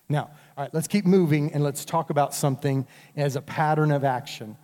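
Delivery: normal talking voice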